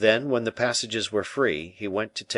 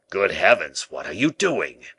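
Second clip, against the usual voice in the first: a burst of louder alarm on the first words; terrified exclamation; 4 dB louder than usual. Acted. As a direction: gasp it out in a mild fright. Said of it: "exclaimed Baisemeaux, in an extremity of terror".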